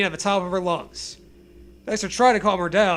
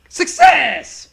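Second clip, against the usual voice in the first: higher, louder sarcastic cheer; hammed-up victory cry; mock triumph; 6 semitones higher, 9 dB louder than usual. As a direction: proclaim it like a mad scientist.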